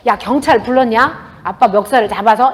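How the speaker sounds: loud, slowed challenge; said loudly. Retold or imitated. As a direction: put it to him loud and deliberate, half-mock. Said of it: "이렇게 크게 얘기했어요".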